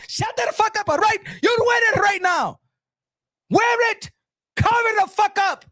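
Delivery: mock-furious orders; bossy scolding. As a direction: overrule the objection, no arguing. Acted order overruling her objection.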